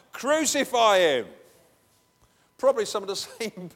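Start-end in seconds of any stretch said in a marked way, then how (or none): 0.1-1.3 loud slow Crucify him, higher; angry crowd cry; mock crowd shout. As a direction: spit out the crowd's demand slowly. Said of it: "shouting something else".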